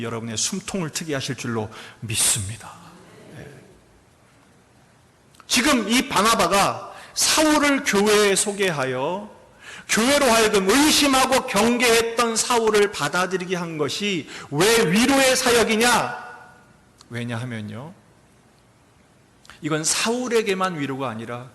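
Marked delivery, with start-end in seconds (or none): 5.5-16.3 louder, higher, slow preaching; full-force preaching. Real, not acted. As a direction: proclaim it to the congregation. (힘차게 설교하듯)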